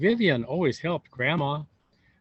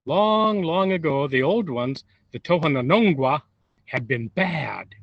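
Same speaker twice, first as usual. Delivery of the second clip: dramatic legend telling; 3 dB louder than usual. A narrator's reading.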